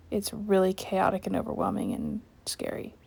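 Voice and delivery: hushed awed whisper. Real, not acted. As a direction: whisper it in awe.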